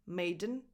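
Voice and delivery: "Maiden" as MAY-dn; silent E. Shown as a demonstration. Teacher breaking down the second word, silent E. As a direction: go directly from D to N in Maiden. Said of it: "you don't pronounce the E".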